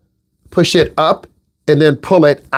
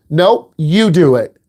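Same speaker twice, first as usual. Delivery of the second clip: slow, flat, firm no; a parent who won't budge; firm parent refusal; slower than usual. Retold or imitated.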